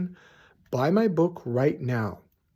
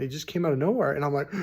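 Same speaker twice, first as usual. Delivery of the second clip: normal talking voice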